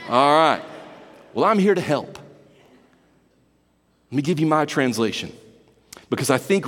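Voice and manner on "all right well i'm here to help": put-on Arkansas accent. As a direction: lay on a down-home Arkansas twang. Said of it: "backwoods Arkansas talk".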